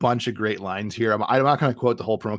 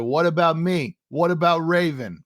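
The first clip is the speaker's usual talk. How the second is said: whiny; 4 semitones higher than usual. Retold or imitated. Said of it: "If whiny Hogan resulted in".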